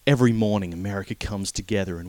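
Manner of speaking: lightly put-on American accent; a bad stab at a folksy American speech; half-hearted American accent mocking a sappy speech; terrible American accent. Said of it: "It's a terrible accent I'm doing".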